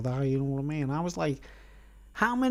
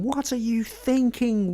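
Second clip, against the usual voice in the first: mock nurse bollocking; 8 semitones higher, slower than usual. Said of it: "bollocking me dad".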